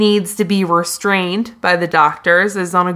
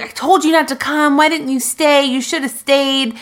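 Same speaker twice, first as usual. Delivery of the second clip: raised-pitch imitated reproach; mock upset scolding; 6 semitones higher than usual. Podcaster voicing upset woman to her roommate, mock scolding. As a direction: scold as in a retold quarrel. Retold quarrel after the party.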